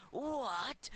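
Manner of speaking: high, loud startled what; shocked outburst. Acted. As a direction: blurt it out in shock. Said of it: "said the boss".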